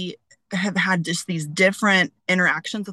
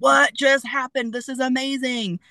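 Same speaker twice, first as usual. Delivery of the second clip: amazed wonder; 7 semitones higher than usual. Retold or imitated. Amazed after feeling hand traced.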